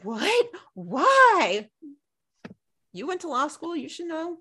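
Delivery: hammed-up indignant mimic; mocking Peter. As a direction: sneer it like a smug lawyer. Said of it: "Peter's just like".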